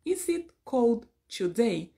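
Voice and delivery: put-on "Is it cold today?" said slowly, linked "itk old"; slow linked demo. Shown as a demonstration. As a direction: stretch "Is it cold today?" out and link the words.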